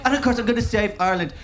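a lightly voiced, excitable pop manager; a hint of a gushing boy-band svengali; X Factor judge. Music judge bragging to the crowd about his boy band, lightly voiced. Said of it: "The judge in the X Factor".

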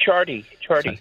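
"chardy" for charity, two syllables with a D; T softened to D. Shown as a demonstration. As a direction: repeat "chardy" with no T in it. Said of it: "correct pronunciation of T in that".

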